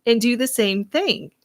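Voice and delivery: upbeat radio show host. Acted. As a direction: welcome listeners like a radio host. Hosts radio show and ad read.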